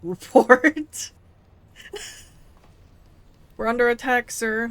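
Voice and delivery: urgent soldier. Acted. Gamer voicing a soldier reporting an attack, loud and urgent. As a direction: bark it like a soldier under fire.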